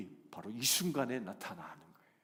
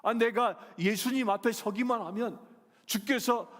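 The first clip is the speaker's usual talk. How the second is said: loud, high, growing outrage; the wronged woman protests to herself; a Canaanite woman crying out in disbelief; woman's indignant thoughts; 14 semitones higher, 9 dB louder than usual. Acted. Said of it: "여인은 무슨 생각했겠습니까".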